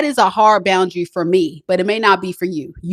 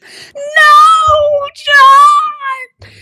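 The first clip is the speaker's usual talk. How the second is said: high frantic screams of a woman being hit; panicked screaming; 8 dB louder than usual. Retold or imitated. Woman screaming at her partner in panic. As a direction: scream his name in terror.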